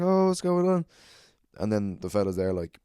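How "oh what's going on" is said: very high, loud put-on wonder; singled-out call, pitched way up in feigned surprise; mock surprise. Comic addressing a commotion in a small room, mock surprise.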